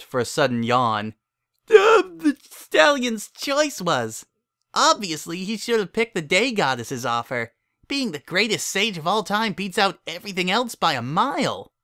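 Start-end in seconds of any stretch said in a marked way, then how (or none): 1.7-11.7 a drowsy filly still arguing; sleepy know-it-all filly. A narrator's reading. Twilight insists to Cadance on the better choice, sleepy.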